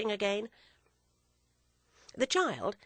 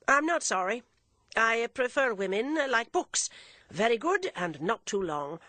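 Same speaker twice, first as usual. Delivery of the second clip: louder, wry gentleman's quip; joking father; 5 semitones higher, 5 dB louder than usual. A narrator's reading. Father jokes to the nuns about his daughter, wry. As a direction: deliver it as a witty aside.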